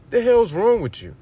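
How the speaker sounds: real exasperated outburst at the accuser; outraged outburst. Real, not acted. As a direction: fling it at her in exasperation. Preacher outraged at the woman.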